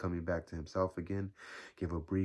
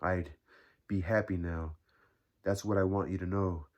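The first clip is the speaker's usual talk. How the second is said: deliberate phrasing with pauses after "I'd" and "now"; measured, earnest emphasis; emphasizing each word; 4 dB louder than usual. A narrator's reading. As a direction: weigh every word. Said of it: "emphasizing each word".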